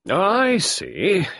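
high, loud, fast clipped colonel; Carbery demanding action, high loud colonel; gruff colonel. A narrator's reading. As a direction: bark it like an impatient old soldier. Carbery voiced.

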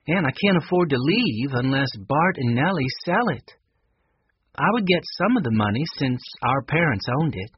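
a hint of character, explaining a hope; slightly lifted, wistful character voice; wistful Connie.

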